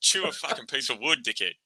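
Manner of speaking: mock taunt, with a loud burst on think you're hard; jeering at a batter like a fired-up fast bowler; mock angry taunt. Retold sledge to Stokes, in a mock angry taunt.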